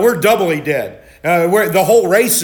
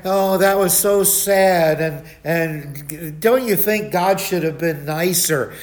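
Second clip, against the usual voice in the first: slow, gentle questioning voice; a mild-mannered questioner, slow and soft; soft-spoken man; slower than usual. Retold or imitated. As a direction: ask it meekly, drawing it out slowly. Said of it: "this guy was just so soft-spoken".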